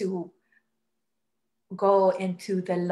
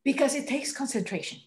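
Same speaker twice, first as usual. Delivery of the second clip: laughing; 6 semitones higher, faster than usual. Real, not acted. Laughs at her own joke.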